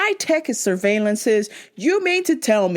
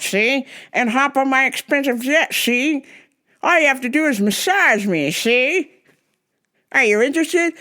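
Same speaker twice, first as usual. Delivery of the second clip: creepy rich guy voice; 3 semitones higher than usual. Retold or imitated. Keeps mocking the creepy rich guy.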